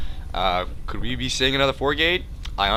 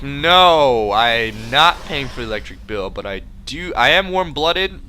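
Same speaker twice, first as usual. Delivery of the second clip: loud protest; 5 dB louder, slower than usual. Retold or imitated. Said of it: "And I'm like".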